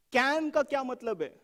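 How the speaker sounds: "Can" stretched out up front; stress on CAN. Shown as a demonstration. Teacher questioning the requirement's next word, "Can" stressed. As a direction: draw out "Can", then rush the question. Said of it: "What do you mean can?".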